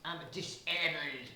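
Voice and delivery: lightly German I'm disabled; German accent. Shown as a demonstration. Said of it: "in sort of German".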